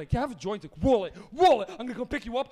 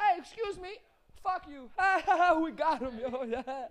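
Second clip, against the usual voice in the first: put-on very slow, high, drawn-out, giddy stoned jeering and laughing; 5 semitones higher than usual. Retelling a high car ride with friends: imitating yelling at people. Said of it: "you're yelling at people".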